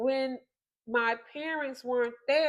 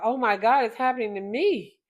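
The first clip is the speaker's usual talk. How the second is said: alarmed thought; 5 dB louder, faster than usual. Retold or imitated. Recalling a child's fear of being left, alarmed. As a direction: blurt out the dawning realisation.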